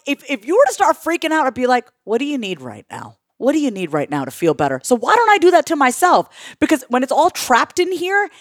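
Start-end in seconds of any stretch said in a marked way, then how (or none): 2.1-4.8 lower, softer supportive question; soothing, dropped-down voice; calming a friend. Acted. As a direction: gently talk a friend down. Talking a panicking friend down.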